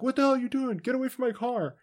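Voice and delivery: playing the jerk caught off guard; mock outrage. Douchebag yelling at the alien near his car, mock outrage. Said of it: "he's like".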